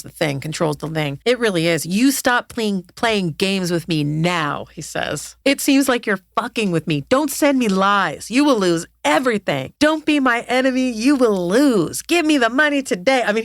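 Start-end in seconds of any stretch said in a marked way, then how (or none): 1.9-4.7 slow, deliberate retold threat; mock rage. Podcaster retelling a scammer's angry messages, mock rage. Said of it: "He starts to race swearing at her". 5.4-13.2 emphatic retold threats, stretched words; mock rage. Podcaster reading out a scammer's threats, mock rage. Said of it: "so then things turn ragey".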